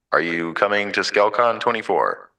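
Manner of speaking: booming hype announcer. Shown as a demonstration. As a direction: call it like a fighting game announcer. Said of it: "uh, announcer voice?".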